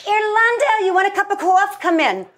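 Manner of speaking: cheery welcome. Retold or imitated. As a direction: greet her like a dear friend. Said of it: "My mom would go".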